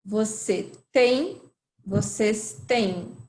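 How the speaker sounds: "tem" and "têm" said alike, slowly; same sound. Shown as a demonstration. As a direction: say "Você tem" and "vocês têm" with one identical vowel. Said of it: "It's the same".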